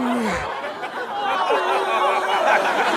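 long, high imitated moan; hammed-up possessed groaning, drawn out; exorcism moan. Mimicking a man on top having an exorcism, long high moan. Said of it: "having an exorcism on top of my body".

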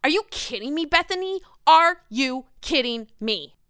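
a hint of Ramona's incredulous whine; imitating Ramona. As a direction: stretch it like Ramona in shock. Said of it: "as Ramona would say".

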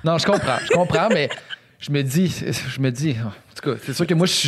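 talking with food in mouth; words round a bite of food; mouth full. Real, not acted. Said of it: "je parle la bouche pleine".

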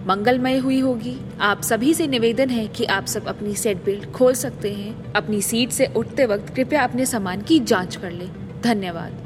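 pilot cockpit headset. Acted. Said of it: "flight captain announcing".

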